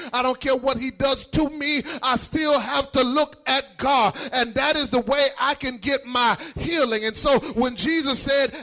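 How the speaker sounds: urgent, rolling sermon cadence; fervent preaching. Real, not acted. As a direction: press on phrase after phrase, building fervour. Preacher builds in fervour.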